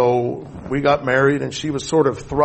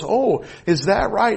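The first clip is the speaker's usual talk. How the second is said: slow, higher imitation of a doubting dad; ominous skepticism; 7 semitones higher, slower than usual. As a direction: draw it out like loaded guns. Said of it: "his guns were being loaded".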